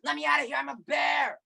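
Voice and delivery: loud drawn-out roar into shouted words; hammed-up bear demanding release; giant chained bear. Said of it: "sounds like we've got a giant bear".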